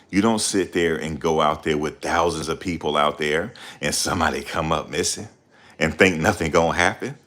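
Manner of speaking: ordinary talk, nothing marked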